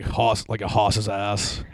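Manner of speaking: slow Boston "hoss" with no R; Boston accent. Shown as a demonstration. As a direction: drag out "hoss" like a Boston local. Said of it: "going, like, the Boston accent".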